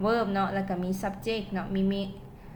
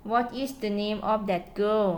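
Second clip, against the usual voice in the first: slowed down, words clearly parted; slow model sentence; much slower than usual. Shown as a demonstration. Teacher to students reading an example, slowly. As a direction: read it slowly for the class. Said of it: "ตัวอย่าง".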